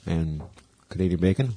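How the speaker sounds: talking while chewing hot pizza; words round a hot mouthful; mouth full of hot food. Real, not acted. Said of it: "My mouth is on fire with flavor".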